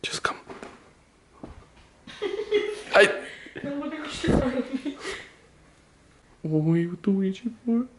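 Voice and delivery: hushed nervous whisper; nervous night vlog whisper. Real, not acted. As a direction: whisper while sneaking. Sneaking in dark house.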